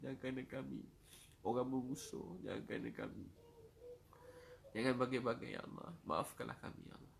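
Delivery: earnest supplication to God; humble, sorrowful praying voice; pleading prayer. Real, not acted. Leads a heartfelt supplication.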